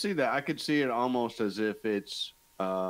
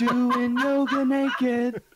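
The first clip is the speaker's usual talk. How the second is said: high, slow, loud laughing; cracking up while saying it; 12 semitones higher, 8 dB louder, much slower than usual. Pretend. Laughing, repeating the phrase.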